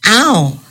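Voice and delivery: sharp yelp of pain; a quick hurt cry; little boy's pained ow; cried out. A narrator's reading. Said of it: "Trim cried".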